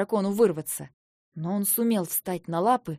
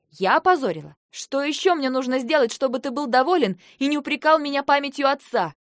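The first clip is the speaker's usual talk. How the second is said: mildly raised, indignant voice; indignant outburst; 4 semitones higher, 4 dB louder than usual. Acted. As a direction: throw the accusation back at a brother. Sister's furious outburst in a quarrel. (возмущённо, с обидой)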